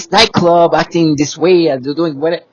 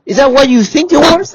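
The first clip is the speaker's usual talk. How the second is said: indignant challenge; 8 semitones higher, 6 dB louder than usual. Real, not acted.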